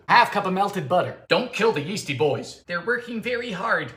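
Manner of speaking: ordinary talk, nothing marked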